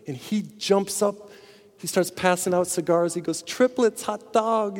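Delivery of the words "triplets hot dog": sharply higher, joyful cry; a new father whooping over triplets; thrilled yelp, pitched way up; excited. Acted.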